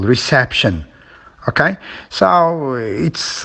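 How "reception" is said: reception with CEP stressed; re-CEP-tion, as a stress demo; stress on second syllable. Shown as a demonstration. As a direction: punch the middle of reception. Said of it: "the second syllable".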